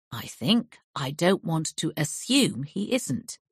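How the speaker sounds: calm, slow and level; even. Acted. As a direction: keep it cool and measured. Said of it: "I said evenly".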